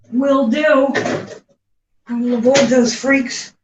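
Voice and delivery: sarcastic, bright and loud; mock cheerful promise. Mocking the label's advice with a bright sarcastic vow. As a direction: play up a fake eager vow.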